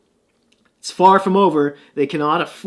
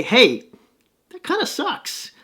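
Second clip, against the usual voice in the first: high, squeaky mock objection; imagined viewer; 10 semitones higher than usual. Host voicing a viewer's complaint about the power play, high mock voice. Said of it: "Now, you might say".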